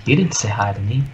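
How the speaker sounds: whispered complaint. Pretend. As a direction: breathe it out unvoiced. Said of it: "He's like".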